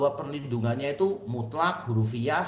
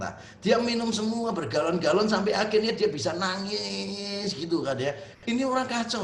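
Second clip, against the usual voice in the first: mock incredulous; 3 semitones higher than usual. Pastor ridicules literal reading.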